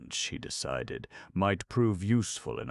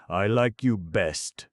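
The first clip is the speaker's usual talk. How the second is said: stone man voice; 5 semitones higher, 8 dB louder, slower than usual. A narrator's reading. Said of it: "he remarked presently".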